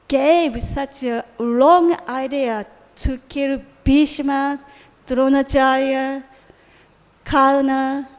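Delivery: slow, deliberate accusation, mildly heated; Duryodhana's retold shouting. Dying warrior lists Krishna's unfair killings, mildly angry retelling. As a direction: count off the wrongs with pauses, lightly acted. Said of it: "started to shout at Krishna".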